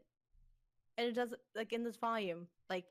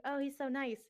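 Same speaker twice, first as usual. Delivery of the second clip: higher-pitched lovestruck quote; gently gushing, mock-smitten; smitten girl; 6 semitones higher, 3 dB louder than usual. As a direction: lightly voice a girl's swooning reaction. Voicing smitten girl's reaction.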